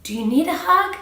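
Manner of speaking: high, sweet little-brother voice; imitating caring toddler. Mother voicing a toddler comforting his hurt brother, high. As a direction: ask it like a tiny caring brother. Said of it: "the other one is saying".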